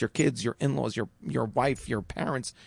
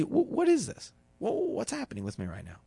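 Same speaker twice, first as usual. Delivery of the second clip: curious self-questioning; 4 semitones higher, 4 dB quieter than usual. Retold or imitated. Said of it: "You face it with curiosity".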